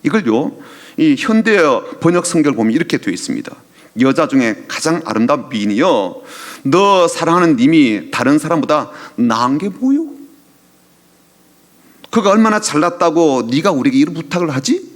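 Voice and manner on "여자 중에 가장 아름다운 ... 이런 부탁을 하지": mocking retort. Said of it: "이런 말이에요".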